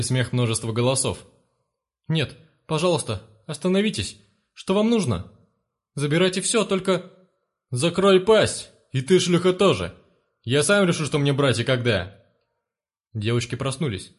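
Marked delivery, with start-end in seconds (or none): 2.1-7.1 frightened begging. Acted. Parents begging the intruders. 7.7-12.2 thug roaring at the terrified parents to shut up; angry shout. Acted.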